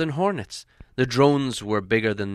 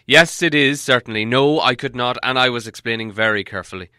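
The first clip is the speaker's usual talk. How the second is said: louder, irritated wizard's retort; cross wizard; 7 dB louder than usual. Acted. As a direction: snap back at the grumblers. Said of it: "answered the wizard crossly".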